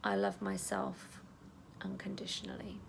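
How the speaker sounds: calm self-talk while tapping; gentle affirmation. Shown as a demonstration. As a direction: say it tenderly to yourself. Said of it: "you're gonna tap again and you're gonna say".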